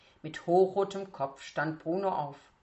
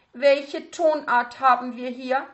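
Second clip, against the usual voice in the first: higher, louder, cool question hiding anger; seemingly detached; 7 semitones higher, 10 dB louder than usual. Acted. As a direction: ask as if indifferent while seething. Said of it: "fragte Frau Leberknecht scheinbar unbeteiligt".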